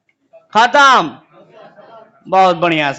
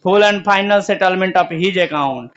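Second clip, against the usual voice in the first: drawn-out, word-by-word reading; teacher dictating the settlement entry, very slow; slow dictation; slower than usual. Shown as a demonstration. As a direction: stretch the words for the class to write. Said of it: "अगला लिखा है".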